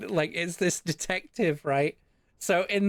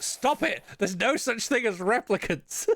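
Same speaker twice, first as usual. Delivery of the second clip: exasperated shout; 5 semitones higher than usual. Pretend. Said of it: "and everyone's like".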